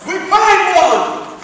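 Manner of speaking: high, loud and drawn out; elated announcement. Acted. Speaker acting out a job hunter's success, elated. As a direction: celebrate it, stretching the words. Acted elation at finding job.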